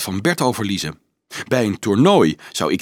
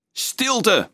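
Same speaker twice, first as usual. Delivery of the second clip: thundering command; 10 semitones higher than usual. A narrator's reading. Anselmus silences the cheering children, thundering. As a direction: call the crowd sharply to order. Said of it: "donderde Anselmus".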